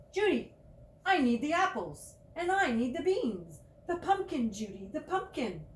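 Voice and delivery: high, loud, hurried demands; harried boss shouting for supplies; frantic orders. Acted. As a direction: rattle off the list in a panic. Frantic kitchen orders to Judy.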